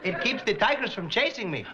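lightly voiced comic traveler; turbaned traveler from India. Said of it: "A smiling barefoot gentleman wearing a turban".

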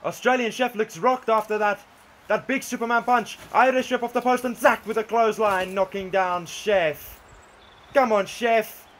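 live wrestling commentary, excited calls; play-by-play commentary. Acted. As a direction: call every move as it lands.

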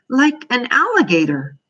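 high, hopeful question. A narrator's reading. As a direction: ask it hoping for a yes. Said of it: "Bobby asked hopefully".

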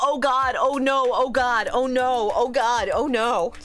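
rapid string of panicked cries. Real, not acted. Panics as curtain closes on tank.

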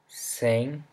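sem whispered with a nasal ng end. Shown as a demonstration. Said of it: "N G sound like we have in".

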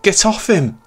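very high, loud desperate yell; shout. Acted. Narrator lunging to save his dog, loud yell. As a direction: scream at the attacker. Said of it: "I cried".

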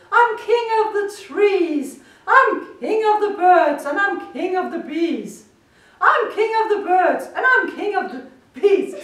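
loud, high gloating; gleeful boasting. A narrator's reading. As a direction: crow about everything below. Gloating king on high throne.

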